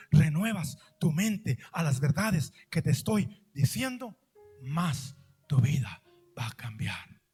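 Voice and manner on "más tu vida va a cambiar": whisper. Real, not acted. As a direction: drop to a lower whisper. Whispered promise after slow build.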